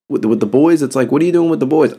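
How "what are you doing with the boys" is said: mock asking voice. Mimicking someone asking the boys.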